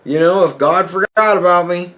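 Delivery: a hint of a lonely grandmother; grandma wondering. Grandson voicing grandma about God forgetting her, a hint of an old lady. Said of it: "she goes".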